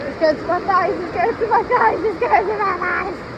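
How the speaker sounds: loud gasping cold shock. Real, not acted. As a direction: yelp it out in the icy water. Wading into cold water.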